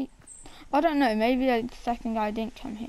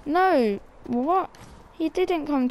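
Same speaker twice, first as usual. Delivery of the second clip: surprised outburst; 5 semitones higher, 4 dB louder, slower than usual. Real, not acted. Enemy not where expected.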